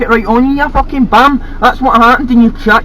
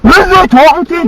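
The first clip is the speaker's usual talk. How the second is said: mocking quote; 6 semitones higher than usual. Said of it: "you're like".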